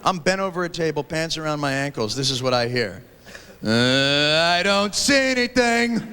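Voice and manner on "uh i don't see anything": accusing. Retold or imitated. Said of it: "In this really accusing voice".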